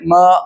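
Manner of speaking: म said short, without drawing it out; short, unstretched म; quick short vowel. Shown as a demonstration. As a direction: keep म brief, no stretch and no jolt. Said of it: "जबर की हरकत है तो जल्दी पढ़ेंगे".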